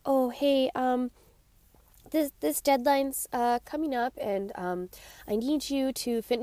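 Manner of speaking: a boss who doesn't dare ask about the deadline; hesitant timid boss. Retold or imitated. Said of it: "you're like".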